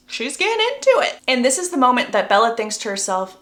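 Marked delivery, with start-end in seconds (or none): 0.1-1.2 high-pitched teasing squeal; singsong-high gossipy excitement; scandalized glee. Real, not acted. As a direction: pitch it way up, tattling. Narrator teases the kiss.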